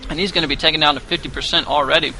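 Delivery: chewing while talking; mouth full. Real, not acted. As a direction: talk through bites of apple. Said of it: "as I'm chewing on some apple slices".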